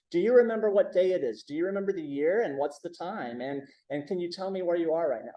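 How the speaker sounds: brisk mock test questions, one after another; rapid quizzing. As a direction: fire the memory questions fast at the elder. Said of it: "they start testing the elder".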